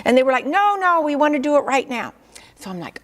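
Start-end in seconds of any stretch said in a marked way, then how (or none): 0.5-2.1 insistent pleading. Retold or imitated. Class insists again.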